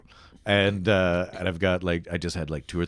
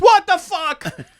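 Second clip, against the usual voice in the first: slow, high, loud laughing shock; laughing disbelief; 12 dB louder, much slower than usual. Retold or imitated. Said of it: "he goes".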